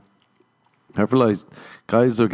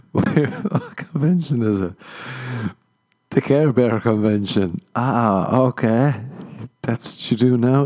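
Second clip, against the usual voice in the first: acted two-voice skit; 3 semitones higher than usual. Acted dialogue at Care Bear convention.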